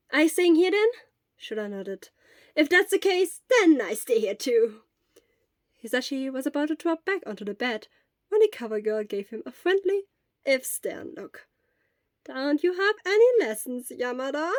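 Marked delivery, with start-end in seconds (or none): 0.1-4.8 put-on higher, louder eager young voice; a worried friend checking in; Hisashi. A narrator's reading. Worried friend asking the sick teacher, higher and louder. 12.2-14.5 higher, a touch louder mild scolding; a nurse gently checking up; Recovery Girl, lightly stern. A narrator's reading. Nurse asking Hisashi about lessons, mild sternness.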